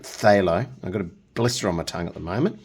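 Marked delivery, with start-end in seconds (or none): 0.0-0.7 "phthalo" said louder with a rising tune; "phthalo" enjoyed aloud; relishing the word. Shown as a demonstration. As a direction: savour "phthalo", lift the end. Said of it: "I just like saying it".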